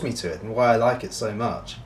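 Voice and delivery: speaking around pipe stem; pipe in mouth. Real, not acted. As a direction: lips clenched on pipe. Seen 2: pipe in hand until 0.8, stem between lips from 1.1.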